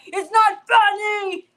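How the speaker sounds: loud, high, drawn-out yell; exasperated mock holler; retold exasperated yell. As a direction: scold him, stretching the words. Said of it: "was like".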